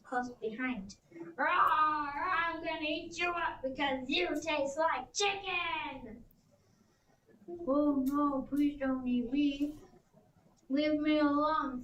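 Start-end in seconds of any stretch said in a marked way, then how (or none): 1.4-6.2 roaring T. rex. Acted. T. rex chasing the Stegosaurus, roaring slowly. 7.7-11.8 a touch louder, slow begging; pleading Ankylosaurus. Acted. Ankylosaurus begging T. rex, slightly louder. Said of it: "said the Ankylosaurus".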